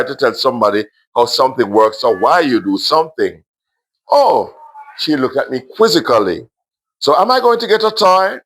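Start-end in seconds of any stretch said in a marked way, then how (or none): 4.1-4.5 put-on high little child's oh; a small girl catching on. 7.0-8.4 put-on much higher child's voice, eager; little girl. Little girl hopes for toy.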